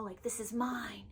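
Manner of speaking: a hushed, playful claim; mock possessive. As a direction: hoard it quietly like a treasure. Jokingly wants to gatekeep the book.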